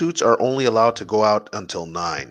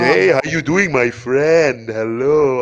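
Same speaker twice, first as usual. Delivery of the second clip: imitating a friend's greeting; 2 semitones higher, much slower than usual. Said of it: "I have his mannerisms".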